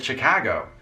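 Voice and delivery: "Chicago" with a local Chicago A; Chicago native's accent. Retold or imitated. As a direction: imitate a Chicago local saying "Chicago". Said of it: "that's not how you say it".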